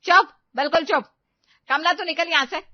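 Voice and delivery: fast, loud angry order; furious. Acted. Mother-in-law furiously silencing bride and neighbour, loud. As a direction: shut everyone up at once.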